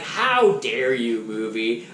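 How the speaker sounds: smiling, mock-offended scolding; playful fake indignation; mock outrage. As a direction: scold the movie with a grin. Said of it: "how dare you with a smile on my face".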